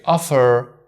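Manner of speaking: "offer" with the R sounded at the end; American offer. Shown as a demonstration. Teacher demonstrating the American "offer". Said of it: "in American they say".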